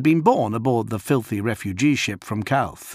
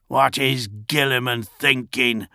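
put-on old man; 3 semitones higher than usual. Old refugee complaining.

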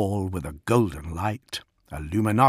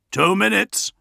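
high warning call; urgent cry; 11 semitones higher, 4 dB louder than usual. A narrator's reading. Gorod warns everyone of the nearing impact, crying out high. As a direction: cry out the countdown. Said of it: "Gorod cried".

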